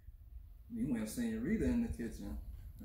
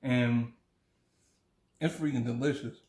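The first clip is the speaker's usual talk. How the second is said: chewing while talking; mouth full. Real, not acted. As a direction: talk through a mouthful of food. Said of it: "I'm literally eating lunch right now".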